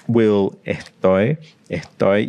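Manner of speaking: "estoy" with the S breathed out like a puff; "estoy" said slowly, the S turned into a breathy sound. Shown as a demonstration. Teacher demonstrates the breathy S in "estoy". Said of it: "You get this breathing".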